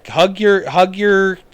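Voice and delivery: rally the listeners to hug their loved ones; bouncing with eagerness; excited urging. Real, not acted.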